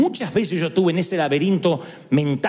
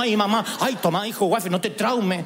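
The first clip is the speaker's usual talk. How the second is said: fussing mother. Retold or imitated. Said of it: "Vieron que hay madres así".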